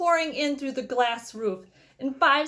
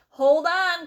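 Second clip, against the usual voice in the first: higher, louder call to hold on; loud excited cry; 4 semitones higher, 6 dB louder than usual. A narrator's reading. Wonka warns his passengers as he presses the button, loud cry. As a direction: warn them all with a bright shout. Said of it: "cried Mister Wonka".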